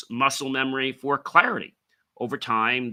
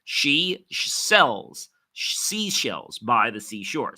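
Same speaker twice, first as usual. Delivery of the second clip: rushed tripping twister; slower than usual. Shown as a demonstration. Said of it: "you don't wanna rush that".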